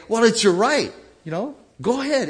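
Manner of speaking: high, loud goading voice; egging on revenge mockingly; mock worldly voice. Pastor voicing the world urging revenge. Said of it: "And the world will say".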